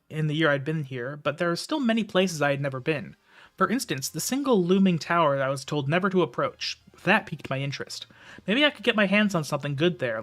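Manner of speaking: steady storytelling read; story narration. A narrator's reading. Reads the novel aloud.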